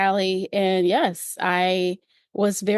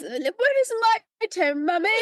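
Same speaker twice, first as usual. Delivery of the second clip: imitated crying girl; 11 semitones higher than usual. Joker mimicking girl to mom at voting, mock crying. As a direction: drag it out high like a wailing kid. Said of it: "this little girl who was crying".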